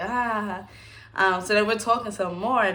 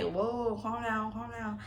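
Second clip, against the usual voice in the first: retold alarm; 4 semitones higher, 7 dB quieter, slower than usual. Retelling alarm at love confession.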